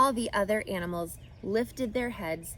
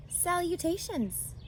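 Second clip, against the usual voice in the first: higher, quiet thin greeting; thin spider voice; 9 semitones higher, 3 dB quieter than usual. Acted. Charlotte greeting Wilbur, thin and quiet. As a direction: greet softly from above.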